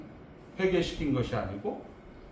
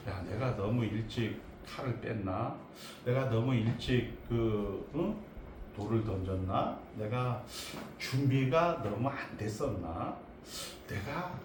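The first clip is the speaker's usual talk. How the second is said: low, soft musing to oneself; quietly second-guess yourself, with hesitant pauses; 혼잣말 같은 자책; 4 semitones lower, 7 dB quieter than usual. Acted. 모세의 자책하는 혼잣말. (나직이 혼잣말로 자책하듯)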